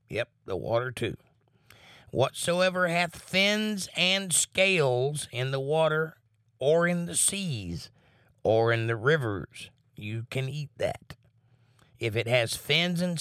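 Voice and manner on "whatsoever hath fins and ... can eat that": slow, lifted scripture reading; measured Bible reading voice. Acted. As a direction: read the verse out slowly, like from the pulpit. Reads scripture aloud.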